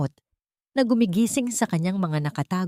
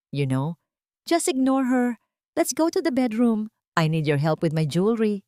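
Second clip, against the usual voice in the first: manipulative sweet talk. Acted. Stella sweet-talking her fiancé Miguel away, coaxing. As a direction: charm him away from the door. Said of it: "Ang mabilis at puno ng manipulasyong paliwanag".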